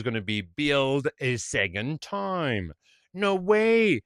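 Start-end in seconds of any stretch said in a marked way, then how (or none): 3.2-4.0 high, loud burst of protest; emphatic refusal. Retold or imitated. Waiter reassuring a customer about billing, emphatic. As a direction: wave it off with a high, punchy exclamation.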